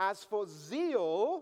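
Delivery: slow, loud, drawn-out, heavily sarcastic drawl.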